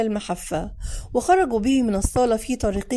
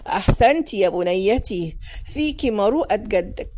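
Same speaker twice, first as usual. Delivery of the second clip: put-on lower, slow old grandmother praising; grandmother's voice; 3 semitones lower than usual. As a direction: speak as a proud elderly grandmother. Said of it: "فوجدتها تقول لبتول".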